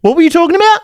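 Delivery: very high, bewildered squeak; hammed-up lost uncle, far above normal pitch; imitating a stoned uncle. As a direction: squeal the question in total confusion. Imitates uncle forgetting the conversation.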